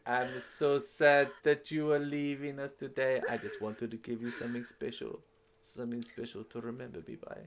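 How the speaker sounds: lightly voiced wistful admirer; sentimental suitor. Admirer giving a parting gift, mildly sentimental. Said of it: "And he's like".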